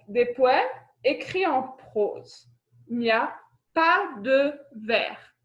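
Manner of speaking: slow teacher recap; deliberate, spaced-out classroom dictation. Real, not acted. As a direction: spell out the point slowly for note-takers. Recap for pupils to copy down.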